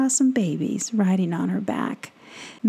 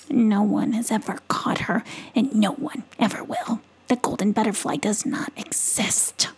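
possum voice; 3 semitones higher than usual. Acted. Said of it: "possum voice".

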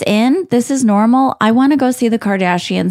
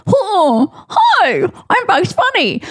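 Bugs Bunny voice; 10 semitones higher, much slower than usual. Retold or imitated. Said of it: "I'm like".

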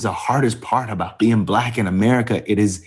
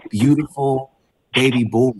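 comforting husband; 4 semitones higher than usual. Retold or imitated. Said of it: "Trying to comfort her".

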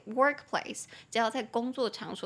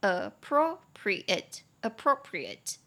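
appropriate said twice with the stress on the second syllable pro; much slower than usual. Shown as a demonstration. Teacher repeating appropriate twice to show the stress. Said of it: "中音节在第二音节".

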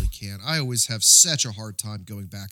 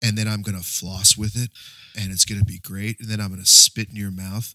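mock sexy phone voice; 4 semitones lower than usual. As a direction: play at a low, sultry phone-sex caller. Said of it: "no one's voice is that sexy".

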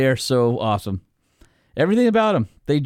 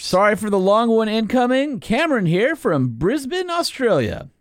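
put-on Australian accent; 9 semitones higher than usual. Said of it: "should I do an Australian voice".

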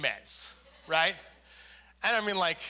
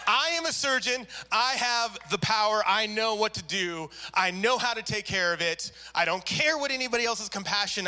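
cocky surgeon; 4 semitones higher than usual. Retold or imitated. Mocking the arrogant surgeon.

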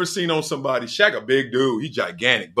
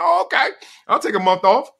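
high mock casual; 10 semitones higher than usual. Casual self quoted.

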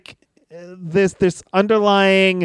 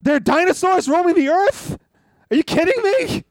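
mock surprise; 11 semitones higher than usual. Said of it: "I said".

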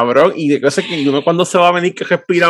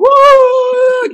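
very high hammed-up crying wail; retold wail; 6 dB louder than usual. Man mocking himself crying to his ex. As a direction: let out a whiny fake sob. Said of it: "yo llorando".

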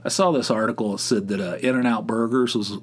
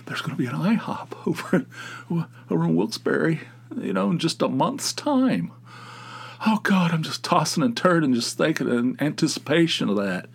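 mock anticipation; 4 semitones higher than usual. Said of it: "I'm not gonna be losing sleep".

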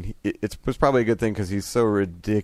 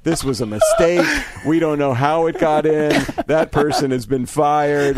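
placating apology; 6 semitones higher, 5 dB louder than usual. Retold or imitated. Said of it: "down and say".

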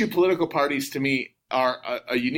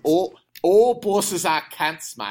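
drawn-out Aussie accent, higher; Australian accent; 3 semitones higher, 3 dB louder, slower than usual. Shown as a demonstration. American guest trying out the swear word, Australian accent. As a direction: put on a slow Australian accent. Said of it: "I'll go to do the Australian accent".

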